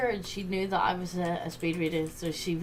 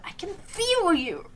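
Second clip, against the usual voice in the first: slow, higher, drawn-out teacher voice; teacher's creepy warning; 10 semitones higher, 4 dB louder, slower than usual. Retold or imitated. A pupil mimicking her teacher who senses her reading ahead, slow and eerie. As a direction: stretch it out like a spooky teacher. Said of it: "she'd go".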